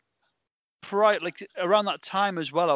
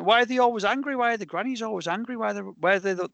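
retold puzzled question; 6 semitones higher than usual. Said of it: "you know, we said".

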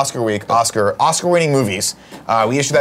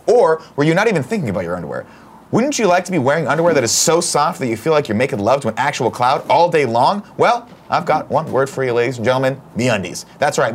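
ad read. Acted. Reads a sponsor ad.

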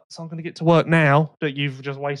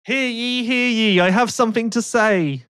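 town crier; 4 semitones higher than usual. Retold or imitated.

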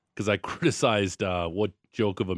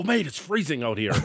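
imitated Australian accent; 5 semitones higher than usual. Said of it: "He was so Australian".

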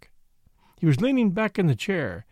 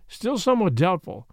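plain reading voice

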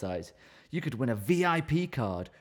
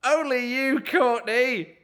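quoted friend; 9 semitones higher, 3 dB louder, slower than usual. Acted. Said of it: "laughed my friend".

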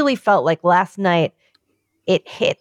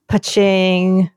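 imitated cash-register ka-ching.

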